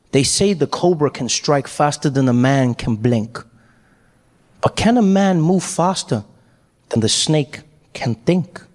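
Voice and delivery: slow, measured dramatic address; cool, calm showman. Acted. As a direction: pose the riddle slowly, in full control. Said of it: "he was really cool and calm".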